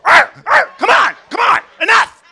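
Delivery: loud, high barking dog voice. Retold or imitated. Comic mimicking a dog barking at a fight. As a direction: bark it out like a big dog.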